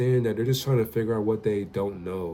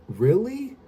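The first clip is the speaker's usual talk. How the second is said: put-on child's voice; 11 semitones higher, 5 dB louder, slower than usual. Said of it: "And she was just like".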